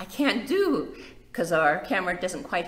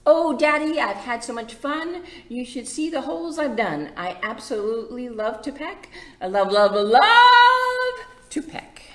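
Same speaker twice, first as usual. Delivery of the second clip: building to a high, loud sung love to peck; gushing chick; 9 semitones higher, 9 dB louder than usual. Acted. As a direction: burst into a squeaky sung finish.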